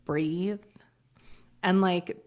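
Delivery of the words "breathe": whispered breathe. Shown as a demonstration. Coach guiding listeners to calm, whispered. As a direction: let the word fall to a whisper.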